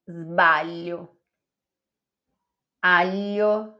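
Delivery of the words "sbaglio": sbaglio with the Italian gl said as lh. Shown as a demonstration. Teacher models the Italian sbaglio. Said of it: "Não é gli".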